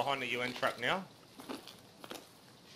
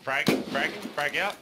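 urgent callout, louder and higher; grenade warning yell; 3 semitones higher, 4 dB louder than usual. Real, not acted. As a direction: shout the grenade warning to the team. Grenade throw callout in firefight.

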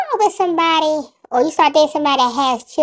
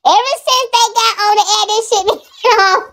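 laughing; 7 semitones higher than usual. Real, not acted. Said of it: "I can't stop laughing".

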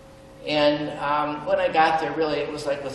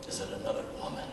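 imitating his wife; 7 semitones lower, 9 dB quieter, much faster than usual. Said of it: "She didn't actually say that. I made that up".

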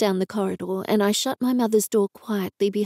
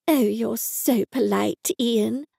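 approving; slower than usual. Acted. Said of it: "my mother said approvingly".

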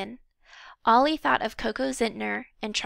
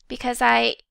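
louder, heated start that breaks off; hotly; 6 dB louder than usual. Acted. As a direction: flare up, then cut yourself short. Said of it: "Ollie began hotly".

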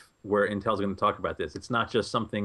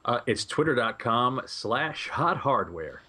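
over eager infomercial; slower than usual. Acted. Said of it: "in my infomercial voice".

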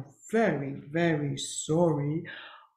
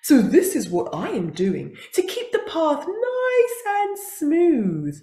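tearful buffalo; 3 semitones higher, 6 dB louder than usual. Acted. Buffalo explaining, cry heard.

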